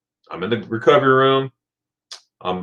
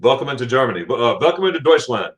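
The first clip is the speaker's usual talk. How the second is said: put-on German accent. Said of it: "and he goes".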